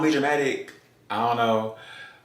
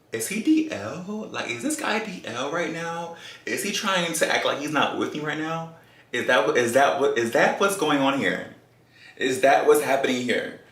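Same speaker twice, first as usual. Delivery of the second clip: suspicious rant; 4 semitones higher than usual. Retold or imitated. Suspicious tipsy rant at boyfriend.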